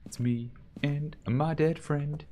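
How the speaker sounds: slow, high, teasing ghost-talk; sing-song to the ghost. Acted. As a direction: coax the ghost, drawn out and high. Talking to the ghost, drawn out.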